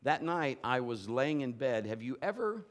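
normal talking voice

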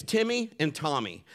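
ordinary delivery

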